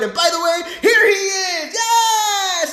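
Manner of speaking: high, loud, hammed-up big reveal; mock announcer reveal. Vlogger imitating the president's surprise reveal, loud high build. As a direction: build up to a talk show surprise. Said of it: "you're like".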